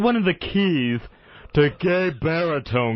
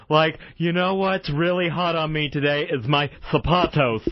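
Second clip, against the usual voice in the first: gay baritone voice. Shown as a demonstration. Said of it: "while I'm talking in a gay baritone voice".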